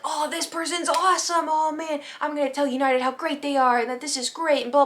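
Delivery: high-pitched mock raving; gushing praise. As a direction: heap on exaggerated praise. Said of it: "praising them".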